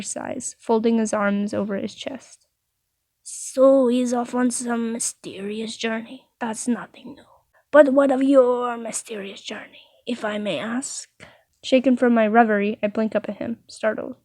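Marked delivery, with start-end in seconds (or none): 3.2-11.1 lightly voiced prying baker; baker character. Baker probes about a mysterious journey, lightly put-on voice.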